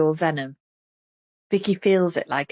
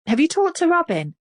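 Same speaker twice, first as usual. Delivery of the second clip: much higher, choked and teary; thick-voiced; 11 semitones higher, 4 dB louder than usual. A narrator's reading. Vicky to Melanie, choked with tears. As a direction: push it through a blocked nose. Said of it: "Her words are thick".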